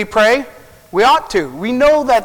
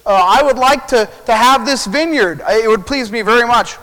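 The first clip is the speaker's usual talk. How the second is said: lightly acted king, higher pitch; king making a request; 3 semitones higher than usual. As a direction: ask with mock royal politeness.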